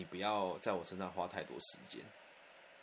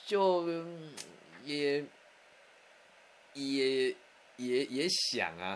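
hesitant stammer; 4 semitones higher, 4 dB louder, much slower than usual. Retold or imitated. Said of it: "我说，".

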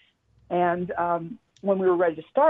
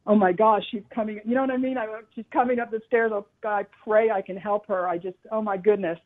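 higher-pitched, flustered inner voice; anxious inner prayer; 4 semitones higher than usual. Retold or imitated. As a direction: replay the moment's nervous rush, pitched up. Retold panicked inner prayer.

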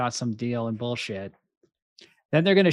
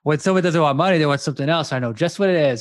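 mock sleazy line; 3 semitones higher, 5 dB louder, faster than usual. Retold line, higher louder.

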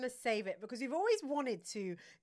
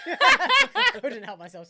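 snorting laughs; 7 semitones higher, 17 dB louder, much slower than usual. Real, not acted. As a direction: snort of laughter, then loud giggles. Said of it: "not the snort".

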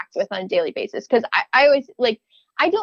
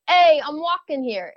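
put-on Brooklyn accent; 5 semitones higher than usual. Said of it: "Give me your best Brooklyn accent".

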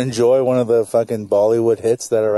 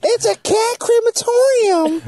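laughing; slower than usual. Real, not acted. Joking punchline while laughing.

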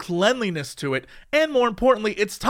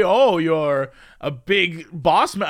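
slow; 3 semitones lower, much slower than usual. Retold or imitated. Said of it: "I wouldn't say".

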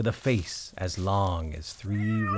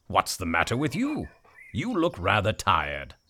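donkey voice; 4 semitones lower than usual. Acted. Donkey speaks in the story.

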